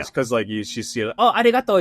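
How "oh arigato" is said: mock Japanese dub accent. Shown as a demonstration. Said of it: "Japanese English dub voice".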